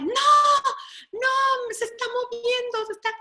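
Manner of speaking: put-on high, panicked child's cry of no; high-pitched scared yelling child; scared child screaming. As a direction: shriek like a frightened little kid. Child screaming at moving animal.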